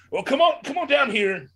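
a hint of a showman clown inviting a kid down; clown beckoning. Clown calls Joe to stage.

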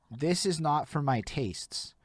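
slow, mild, diplomatic; measured, polite opinion. Retold or imitated. Reviewer showing fans the kinder way, slow and mild. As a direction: spell out a gentle disagreement slowly. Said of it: "there's a difference between saying".

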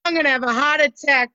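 fast panicked breathing speech; gasping with mock panic; hyperventilating. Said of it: "you're hyperventilating".

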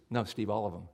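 God's firm answer. Acted. God telling the pastor to love all his neighbors, low and soft. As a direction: answer him gently but firmly.

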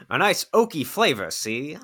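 laughing wine snob oil baron; a laughing oil tycoon savoring wine. Acted. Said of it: "He talks like an oil baron".

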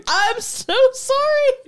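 mock apologetic mom. Mom's apology voiced.

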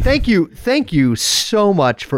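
slow, lightly voiced radio host; half-managed radio voice, words stretched out; attempted radio voice. Guest retries thanking the host, half-managed radio voice. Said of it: "I can't do the fucking Riley Radio voice".

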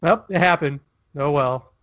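understated, imitated shrug; casually unbothered, letting it go; calm resignation. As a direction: accept defeat without any fuss. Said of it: "He's not angry".

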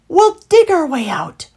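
high, loud rallying cry; loud, eager call; excited exclamation. A narrator's reading. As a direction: announce the escape plan with excitement. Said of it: "exclaimed Heathly".

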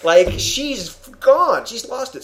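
high, laughing disbelief, stretched slow. Real, not acted. Cohost laughing at Wanda turning him into blocks, amused. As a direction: crack up while describing the twist. Laughing at the absurd plot turn.

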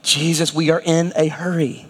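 a hint of hurried, nagging followers; impatient disciples. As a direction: mildly pester him that you're late. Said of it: "you can just imagine the disciples having been like".

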